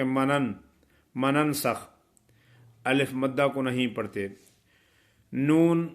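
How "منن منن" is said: منن said clipped, with no alif length; teacher imitating the mistake: منن with the madd dropped; wrong short reading. Shown as a demonstration. Teacher shows students the wrong reading, منن said short. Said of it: "کچھ لوگ ایسا پڑھتے ہیں".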